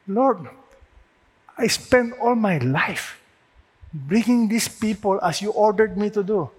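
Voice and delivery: pleading, rising to a loud, high protest; an old servant protesting his lot; complaining Moses. Acted. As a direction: Moses hurt and grumbling at God. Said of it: "if you were Moses, how would you feel?".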